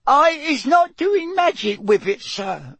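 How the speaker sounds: very high squealing elf; Winky. A narrator's reading. The elf denies doing magic to Mister Diggory, squealing. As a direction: squeal the tearful protest, high-pitched. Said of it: "squealed Winky".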